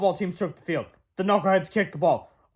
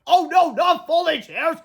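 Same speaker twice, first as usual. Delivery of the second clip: much higher, slow, loud wail; dismayed shout; 10 semitones higher, 5 dB louder, slower than usual. Acted. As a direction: cry out over lost chairs. Gym teacher's dismay.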